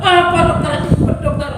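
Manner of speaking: high, impatient plea; frantic patient. Acted. Sick man demanding his diagnosis, frantic.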